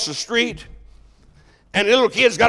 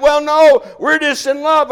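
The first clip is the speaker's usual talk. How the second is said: mock naive couple; 5 semitones higher than usual. Young couple answering the pastor, mock naive. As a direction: play the starry-eyed kid who hasn't thought it through.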